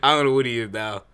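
holding back a laugh; trying not to crack up; stifled giggles. Real, not acted. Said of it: "I should be laughing".

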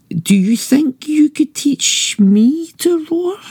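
slow, breathy mouse whisper; timid whisper. Acted. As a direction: ask it in a tiny frightened whisper. Mouse timidly asking lion.

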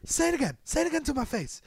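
imitating a tough guy egging him on; hammed-up say it again; mock challenge. Retold challenge in standoff.

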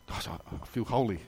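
soft, sighed mock reverence; mock piety. Boy finishing his rushed penance, mock-pious. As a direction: breathe it out low, as if sanctified. Mock relief after gabbled prayers.

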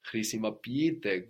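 χρησιμοποιείτε with two separate ee sounds in -ποιείτε. Shown as a demonstration. Teacher modelling the verb, χρησιμοποιείτε with a doubled ee. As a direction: sound both ee vowels in χρησιμοποιείτε. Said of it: "with two E sounds".

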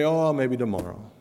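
mildly indifferent brush-off; lightly acted apathy; apathetic. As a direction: put it off with a mock shrug in the voice. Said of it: "never look at Scriptures apathetically".

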